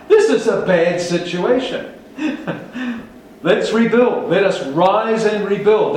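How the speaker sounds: high, loud rallying cry; 1 mock Nehemiah rallying. Nehemiah urging the people to rebuild, high and loud. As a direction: rouse them with a grin. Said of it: "says Nehemiah".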